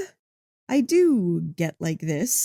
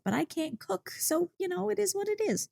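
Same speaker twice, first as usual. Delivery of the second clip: softer, higher, half-embarrassed mumble; sheepish aside; 10 semitones higher, 8 dB quieter than usual. Real, not acted. Admitting to honey she can't cook, a sheepish soft aside. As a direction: brush it off quietly.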